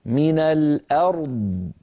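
slow من الأرض with the r sounded before the d; من الأرض held slowly, r and d both clear. Shown as a demonstration. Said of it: "اسمعوني جيدا".

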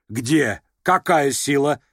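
mother snapping at her daughter; sharp question. A narrator's reading. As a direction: snap the question. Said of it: "резко спросила Лизавета Прокофьевна".

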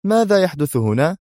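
voiced high, calling out a sharp question; shout. A narrator's reading. Someone bursts in demanding what's going on, shouting. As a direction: call out to the room, startled. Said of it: "هتف أحدهم".

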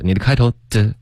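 ordinary talk

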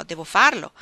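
loud, emphatic resolve; crying out. A narrator's reading. Orlando resolves she must act like a woman, crying out. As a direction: raise the voice on a narrated cry. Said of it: "gridò".

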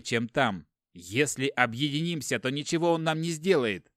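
heated argument. Acted. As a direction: press him hard, voice rising. Brother urges resistance loudly. (брат гневно спорит, громче)

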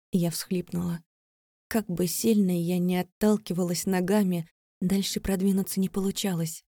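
ordinary delivery

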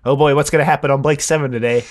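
quick, lightly acted anticipation; brisk eager wondering; mock eagerness. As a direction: play a mildly excited viewer. Voices himself eagerly watching blind.

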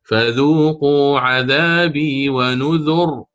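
slow chanted Quran verse; measured recitation. Shown as a demonstration. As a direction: draw out each word as in tajwid. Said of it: "هي في الأصل نذري".

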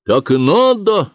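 a villager barking approval; shouted out. Acted. Someone in the crowd shouts approval, loud. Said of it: "выкрикнул кто-то из толпы".

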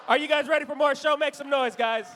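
loud, high, pumped-up shout; arena-style hype call; crowd hype. Real, not acted. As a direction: get the room roaring. Hyping the crowd.

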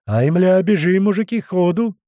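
loud, high cry to flee; urgent shout. A narrator's reading. Stung men urge each other on, high loud shout. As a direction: yell to get everyone running.

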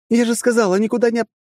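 high loud stubborn shout. Acted. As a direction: yell back, cut off mid-word. Partner shouts, cut off.

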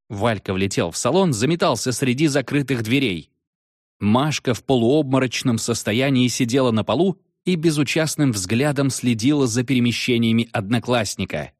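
ordinary delivery

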